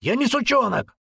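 put-on teen yelling back at the sergeant; defiant shout. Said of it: "с вызовом выкрикнул парень".

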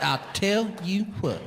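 hammed-up cowboy impression; mock cowboy. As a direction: stretch it out like a wannabe cowboy. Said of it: "they have adopted the cowboy persona".

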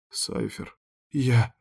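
hoarse, barely voiced croak; wheezed. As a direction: rasp out the name in dread. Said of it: "прохрипела я в ответ".

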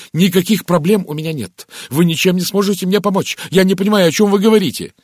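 high, loud, frantic denial; agitated exclamation. A narrator's reading. Linda jumps up rejecting Poirot's help, crying out. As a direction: cry out, pitched right up. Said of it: "Линда воскликнула".

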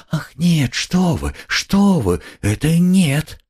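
high, alarmed protest, slowing at the end; frightened denial. A narrator's reading. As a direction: hurry to deny it, startled. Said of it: "с каким-то даже испугом".

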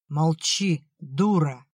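put-on drunken slurred mumble; slurred cynical barfly. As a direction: slur it like a drunk telling her off. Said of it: "заплетающимся языком пробормотал отец".

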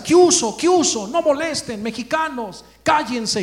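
high-pitched mock scolding; imitating an irritated neighbor, high throughout; scolding old woman. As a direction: voice a cross little old lady shooing people away. Old woman scolds noisy singers from balcony.

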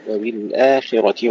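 "وبالآخرة" slowly, with a thin long aa; light hamza. Shown as a demonstration. Teacher repeating the model, "وبالآخرة" with light hamza and alif. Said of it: "خلي الهمزة مرققة".

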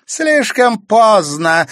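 loud, high, slow exclamation; exclaiming. A narrator's reading. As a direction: cry it out, drawn out. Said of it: "воскликнула Клементина".

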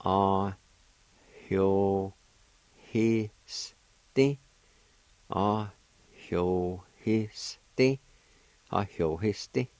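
Ahiohisti said carefully as a model for learners; careful demo pronunciation. Shown as a demonstration. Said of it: "It's pronounced like this".

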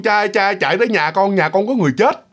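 abrupt order to the priest at the gate; blunt, curt call. Retold or imitated. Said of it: "Nói ngang xương".

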